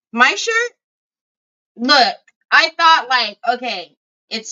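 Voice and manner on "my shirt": high, squeaky repeat of the question; squeaky high echo. Shown as a demonstration. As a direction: squeak it back in mock disbelief.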